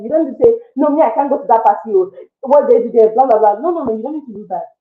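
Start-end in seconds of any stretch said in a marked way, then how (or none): 0.8-3.6 fast, pushy mock refusal, a bit louder; aggressive refusal. Imitating a rude partygoer refusing an invite, mock aggressive. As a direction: brush them off rudely, quickly. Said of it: "You don't need to be aggressive".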